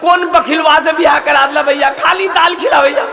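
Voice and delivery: mock-weepy sister's protest; tearful complaint. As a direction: complain to your brother as if near tears. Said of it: "बहन आंसू नहीं रोके पाली".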